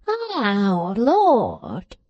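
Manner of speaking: put-on drawn-out winded old man's groan; gasping. Old man just shaken violently by his visitor, gasping. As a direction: gasp it out as if just shaken breathless. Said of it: "gasps Mister Smallweed".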